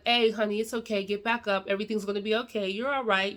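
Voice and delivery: calm her down kindly; gentle consoling. Pretend. How dad should console daughter.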